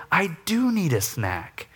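slow, gentle confession; humble admission. Retold or imitated. Dad apologizing to his kids, slow and gentle.

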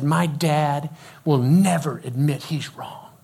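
slow, emphatic retold grievance; firm complaint. Teenager complaining about his dad, firm complaint. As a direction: state it slowly as a settled verdict.

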